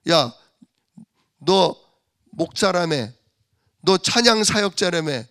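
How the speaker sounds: mocking taunt. Preacher voicing mocking neighbors, a lightly played jeering taunt. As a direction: sneer it at the believer. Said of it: "조롱하는 거예요?".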